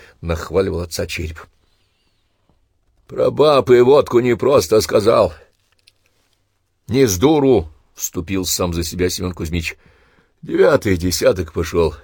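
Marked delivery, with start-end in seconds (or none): 3.1-11.9 bitter insistence. Acted. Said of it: "зло подтвердил свои слова старик".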